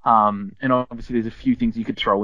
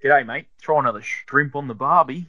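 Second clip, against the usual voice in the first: lightly put-on Aussie Ocker accent; 3 semitones higher than usual. Shown as a demonstration. Reluctant player pushed to give it a shot, Ocker accent. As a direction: have a half-hearted go at Ocker accent. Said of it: "You wanna try".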